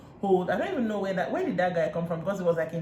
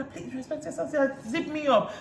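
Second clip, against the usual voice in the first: high-pitched imitation of a demand; mock insistent; 8 semitones higher than usual. Recapper mimics Chioma wanting back into the fight, insistent. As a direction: pitch it well up, like retelling someone's urgent order.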